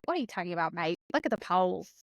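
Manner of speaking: put-on a weak, barely-there Australian accent on colleagues' reply; lightly voiced Aussie mate, scoffing; bad Australian accent. Colleagues scoff at her Trump worry in a bad Australian accent. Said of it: "Australian. I know that was a terrible, terrible attempt at an Australian accent".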